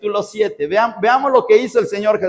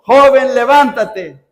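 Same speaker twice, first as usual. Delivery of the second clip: a loud, firm command; commanding call of Jesus; 3 semitones higher, 5 dB louder, slower than usual. Acted. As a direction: call the dead youth back to life. Jesús ordena, sermón. (llamada fuerte y autoritaria)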